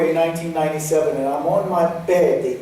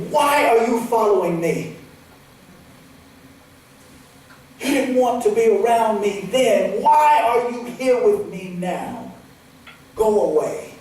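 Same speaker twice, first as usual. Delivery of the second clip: accusing; 5 semitones higher than usual. Retold or imitated. Confronting father's ghost.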